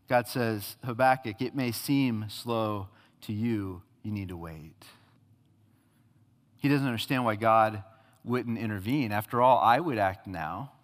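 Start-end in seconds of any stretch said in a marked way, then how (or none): 0.8-4.8 slow, soft and calm; God calmly telling Habakkuk to be patient; gentle reassurance. Acted. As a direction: ease him down quietly.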